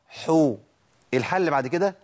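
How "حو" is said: "حو" with a drawn-out oo vowel; ha with damma. Shown as a demonstration. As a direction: slowly model "حو" for students. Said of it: "الضم".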